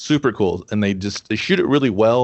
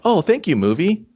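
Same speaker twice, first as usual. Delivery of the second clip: sarcastic thanks; 7 semitones higher than usual. Retold or imitated. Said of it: "you're just like".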